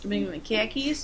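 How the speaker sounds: questioning in a mock Boston accent; playful Boston-accented question. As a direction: ask it in put-on Bostonese. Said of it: "mini rants and different accents".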